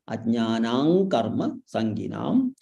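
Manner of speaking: "ajnanam" drawn out as ajnanaang before karma; anusvara as ng. Shown as a demonstration. Teacher demonstrating anusvara before karma, slow ng. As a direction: slowly turn the m of "ajnanam" into ng. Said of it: "Instead of in Anuswara".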